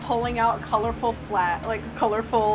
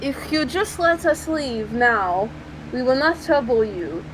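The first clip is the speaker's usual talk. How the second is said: deliberate, slightly raised put-on voice; Slava. Slava bargaining with store owner.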